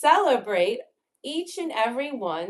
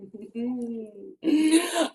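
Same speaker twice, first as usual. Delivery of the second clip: giggle; 4 semitones higher than usual. Real, not acted. Laughs after slow line.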